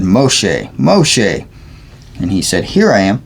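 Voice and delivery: measured, deliberate Bible reading; scripture read aloud. Real, not acted. Reader sharing scripture aloud, measured reading. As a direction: read the passage aloud clearly.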